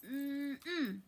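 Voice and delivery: squeezing hum of a hug. Acted. Host giving viewers a virtual hug, squeezing hum. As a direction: hum as if hugging tight.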